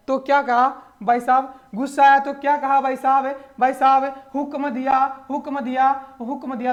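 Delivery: loud, high, booming decree; mock royal command. Teacher booms Maharana Pratap's angry order to students, loud and high. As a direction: thunder out the king's order.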